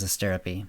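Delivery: Asterope said uh-STER-uh-pee; four-syllable Asterope with the final e sounded; corrected pronunciation. Acted. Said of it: "it's pronounced Asterope".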